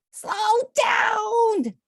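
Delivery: high, loud urgent call; urgent slow down shout. A narrator's reading. Reading aloud, crying for the child to slow down. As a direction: shout it like stopping a runaway kid.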